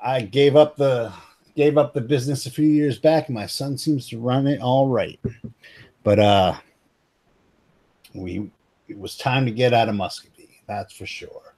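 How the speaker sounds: lightly voiced American hick old-timer; American hick accent. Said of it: "go with total American hick here".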